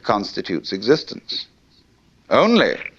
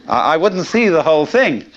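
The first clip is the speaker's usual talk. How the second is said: laughing through the words, higher and louder; 7 semitones higher, 6 dB louder than usual. Real, not acted. Lecturer laughing at his own example to the audience. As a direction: breaks into laughter mid-sentence.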